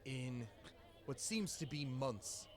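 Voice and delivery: booming jolly pirate captain addressing the crew; rally the crew like a proud captain. Acted. Captain rallies his crew at the feast, jolly and booming.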